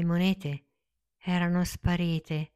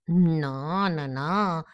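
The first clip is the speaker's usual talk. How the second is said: honey-sweet little voice; much slower than usual. Acted. Fox sweetly correcting Pinocchio. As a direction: coo the no like honey. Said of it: "con una vocina dolce come il miele".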